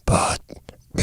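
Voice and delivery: very soft, deep creature grunt; low, croaky alien grunt; low big alien. Acted. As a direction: drop it low like a huge brute. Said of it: "it's gotta be low".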